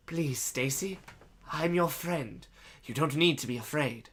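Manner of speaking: gentle, mildly soothing plea; reassuring. Acted. Man holds out a hand to Stacy, reassuring. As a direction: coax her to trust you. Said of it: "he assured her".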